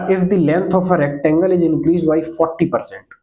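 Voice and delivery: slow, measured reading of the question; slow classroom dictation. Shown as a demonstration. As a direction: read it out word by word for the class. Reads the question out slowly.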